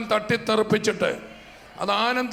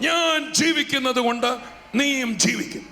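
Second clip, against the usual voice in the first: emphatic proclamation; 3 semitones higher, 4 dB louder than usual. Acted. Preacher proclaiming Jesus' promise to the congregation, loud and triumphant.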